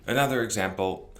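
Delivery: ordinary talk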